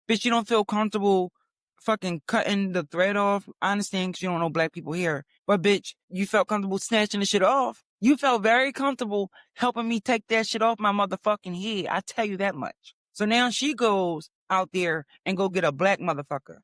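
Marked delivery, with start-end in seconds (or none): 0.1-11.9 retold indignant telling-off; a touch of heated disbelief; indignant comeback. Telling off the lady who wouldn't cut the thread, mildly heated.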